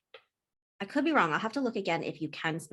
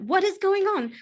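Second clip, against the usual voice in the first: woman's voice; 14 semitones higher, 8 dB louder than usual. Acted. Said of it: "a proper fair woman's voice".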